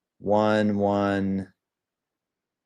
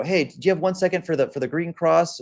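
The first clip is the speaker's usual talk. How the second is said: charity canvasser; 8 semitones higher than usual. Retold or imitated. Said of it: "and he says".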